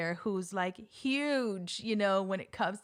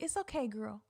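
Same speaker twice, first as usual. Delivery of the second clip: self pep talk; 3 semitones higher than usual. Retold or imitated. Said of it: "to myself in my head".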